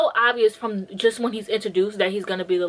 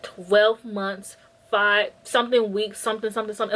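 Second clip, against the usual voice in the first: mock counting down. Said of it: "he's, like, counting it down".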